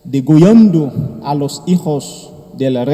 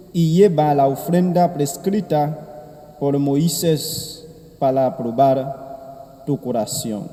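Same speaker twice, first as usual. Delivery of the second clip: soft, measured liturgical reading; Gospel reading; 4 dB quieter than usual. Acted. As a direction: proclaim the Gospel gently at Mass. Priest proclaims the Gospel.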